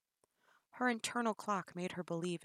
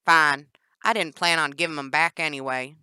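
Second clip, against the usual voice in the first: laughing; 13 dB louder than usual. Acted. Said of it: "Danny laughed".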